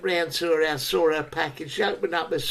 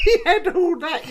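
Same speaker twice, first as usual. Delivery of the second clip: high laughing words; cracking up mid-sentence; 11 semitones higher, 4 dB louder than usual. Real, not acted. Cracking up telling his friend about her, laughing. Laughing through retold story.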